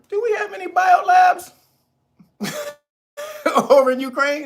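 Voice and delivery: high, loud mock grilling; loud hammed-up interrogation; mock Rubio question. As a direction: fire the question like a senator cornering her. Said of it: "And so Rubio asked her".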